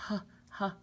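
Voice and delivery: H said as its breathy sound "huh", not the letter name; H as an isolated "huh" sound for young learners; letter sound demo. Shown as a demonstration. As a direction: sound out H as a short puff of air. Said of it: "house starts with H".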